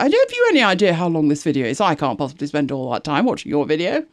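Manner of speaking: put-on whinge, leaping high then sinking; mock a petty, whingy viewer; whingy complainer. Creator mimicking a viewer's complaint about video length, whingy. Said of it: "in a very high-pitched and insignificant whingy voice".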